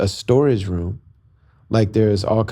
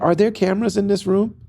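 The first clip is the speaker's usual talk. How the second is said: high, suspicious and alarmed; asking in nervous disbelief; alarmed question; 10 semitones higher than usual. Retold or imitated. To the doctor in the camera room, high nervous alarm.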